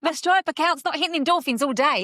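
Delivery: high, loud and giddy, playing a constant high; over-the-top buzz. Coach mocking an all-day high, loud and giddy. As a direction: gush it like the payment euphoria never fades. Acting out the payment rush high.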